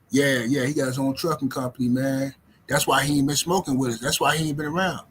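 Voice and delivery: a hint of a lazy stoner making big plans; mock stoner. Imitating a man who has smoked for twenty years, mild stoner voice. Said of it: "This how they sound".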